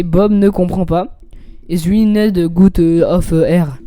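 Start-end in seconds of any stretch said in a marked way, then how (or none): 1.7-3.8 halting English with a French accent. Real, not acted. Streamer attempting English for viewers, French-accented English. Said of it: "meilleur accent de l'histoire".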